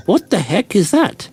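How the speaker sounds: mock astonished. Sees strange figure on beach.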